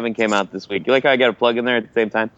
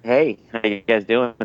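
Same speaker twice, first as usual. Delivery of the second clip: hoarse sick voice, thick and husky. Real, not acted. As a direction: speak through a head cold. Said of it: "my sexy voice because I'm sick".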